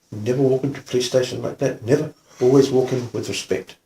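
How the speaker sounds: soft, measured admonition; lightly imitated soft-spoken policeman; quietly spoken. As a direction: calmly lay down a rule. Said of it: "he was very quietly spoken".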